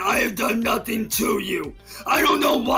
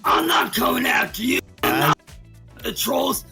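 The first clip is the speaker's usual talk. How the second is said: berserk rage; 4 semitones lower than usual. Real, not acted. Shouting plea at harasser.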